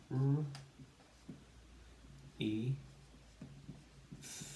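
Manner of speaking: R, E, TH as three isolated sounds; long pauses between the sounds R, E, TH; sounding out. Shown as a demonstration. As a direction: segment WREATH sound by sound. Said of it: "we build the word".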